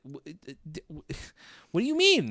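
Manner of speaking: high laughing what do you mean; laughing disbelief. Real, not acted. Incredulous at tone-deaf statement.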